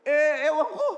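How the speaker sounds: high, loud brush-off; retold irritated answer. Customer answering the new pet shop seller, mock irritated. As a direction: fire back an annoyed reply, acted.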